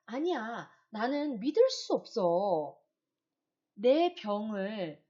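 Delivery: slow, loud stunned patient; acted patient in denial, slow and loud. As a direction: drag out the refusal in disbelief. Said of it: "누구나 다 처음에는 부정을 하죠. 어떻게요?".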